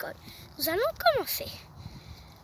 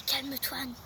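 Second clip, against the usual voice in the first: sighing calm; 4 semitones lower, 6 dB quieter than usual. Acted. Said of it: "La maîtresse soupire".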